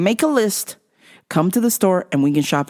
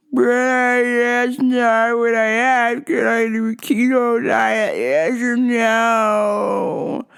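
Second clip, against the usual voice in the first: pushy customer; 3 semitones higher, much slower than usual. Retold or imitated. Imitating pushy customer on phone.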